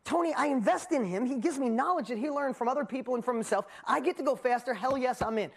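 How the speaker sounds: gushing about investing with Tony; stoked. Retold or imitated. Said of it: "I'm like".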